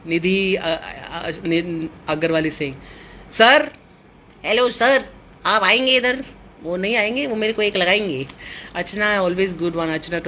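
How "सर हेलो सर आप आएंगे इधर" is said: raised, higher voice calling across the house. Real, not acted. To her husband out on the balcony, calling out loudly. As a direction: call him in from the balcony.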